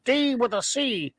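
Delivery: glitchy android announcer; lightly done Max Headroom. Acted. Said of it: "I'm Max Headroom".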